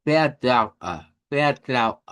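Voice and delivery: "vertraue" ending in a clear short e; final E. Shown as a demonstration. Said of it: "pero es una E". ("vertraue" terminado en una E clara)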